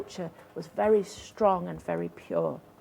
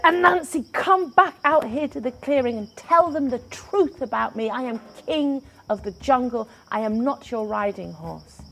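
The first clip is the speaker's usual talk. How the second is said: higher and louder, shouting at the door; furious Tiger; 4 semitones higher, 7 dB louder than usual. Acted. Tiger at Anansi's door, roaring in fury. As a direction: bellow through the door at the spider. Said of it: "He bashed on the door".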